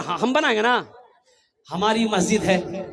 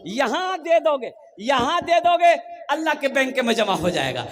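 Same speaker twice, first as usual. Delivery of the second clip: rousing appeal; 4 semitones higher than usual. Real, not acted. Preacher urges giving, building up.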